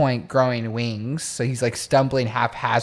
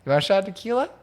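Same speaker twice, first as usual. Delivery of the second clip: smooth version in Josh's mind. Retold or imitated. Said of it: "it sounded like this".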